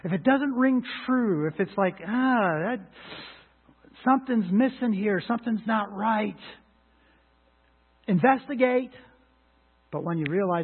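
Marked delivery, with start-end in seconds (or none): 0.0-8.9 rising exhortation. Acted.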